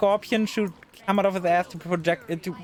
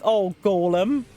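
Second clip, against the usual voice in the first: slow, stretched-out groan of a plea; drawn-out exasperated plea; slower than usual. Real, not acted. Player groaning at the golem that keeps running into enemies, drawn out. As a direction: drag out the oh like you've given up on him.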